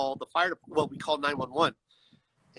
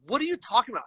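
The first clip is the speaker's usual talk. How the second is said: retold exasperated protest, higher pitched; getting mad; 6 semitones higher, faster than usual. Arguing with dispatch over the address, getting mad. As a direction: push back in rising disbelief. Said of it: "I started getting mad".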